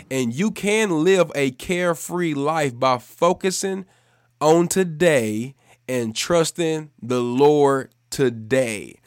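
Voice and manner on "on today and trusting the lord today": slow, weighted delivery landing on "today"; emphasis on today. Shown as a demonstration. Preacher stressing "today" to his listeners, slow and weighted. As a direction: lean on "today" to make it stick. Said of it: "I wanna put emphasis on the word today".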